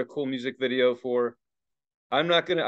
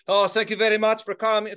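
higher-pitched mock French accent; attempted French accent; 7 semitones higher, 4 dB louder than usual. Mocking polite bands thanking the crowd, attempted French accent. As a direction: have a shaky go at a French accent. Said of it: "Is that a French accent?".

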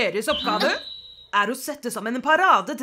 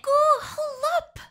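sharp outburst. Acted. Outburst in a classroom quarrel.

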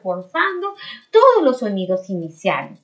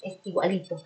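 ordinary delivery

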